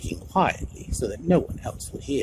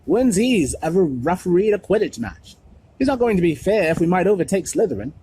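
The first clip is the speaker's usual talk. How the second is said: much higher and louder, indignant; outraged; 7 semitones higher, 8 dB louder than usual. A narrator's reading. George complaining to the captain, indignant and loud. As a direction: protest the unfairness hotly.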